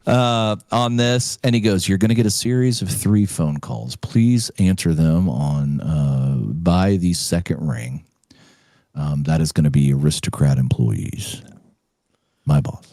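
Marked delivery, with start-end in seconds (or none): 1.9-11.4 tech. Retold or imitated. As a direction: drone it out like a tired technician. Tech voiced low.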